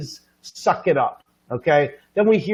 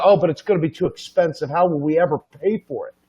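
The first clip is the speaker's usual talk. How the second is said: mock worried public; faster than usual. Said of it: "people go".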